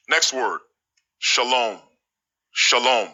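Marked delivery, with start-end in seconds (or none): 1.2-1.8 "shalom" with a long o in the second syllable; "shalom" as sha-LOME; correct pronunciation. Shown as a demonstration. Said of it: "This word is pronounced shalom". 2.5-3.1 "Shalom" as sha-LOME; "Shalom" in two syllables, falling on -lome; correct pronunciation. Shown as a demonstration. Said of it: "This word is pronounced shalom".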